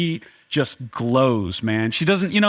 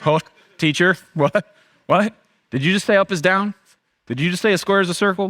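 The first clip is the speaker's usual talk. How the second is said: baffled listener; 4 semitones higher than usual. Retold or imitated. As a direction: play a confused onlooker questioning the teacher. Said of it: "You'd be like".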